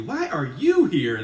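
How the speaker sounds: blunt and pointed, "you" punched; rude. Pretend. Preacher showing congregation how rude it would sound, blunt. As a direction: ask it like an unwelcoming challenge. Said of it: "that would be rude".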